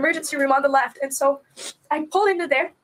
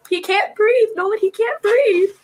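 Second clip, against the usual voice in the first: loud, high, panicked call; frantic cry to wake her husband; retold yell; 4 semitones higher, 5 dB louder, slower than usual. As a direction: shout for your husband's help. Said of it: "I yelled at Dan".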